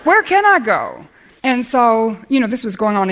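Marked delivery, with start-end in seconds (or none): 0.0-1.0 frustrated complaint to God, building; retold rising anger. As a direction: let the anger grow toward the last question. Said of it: "I was getting angrier".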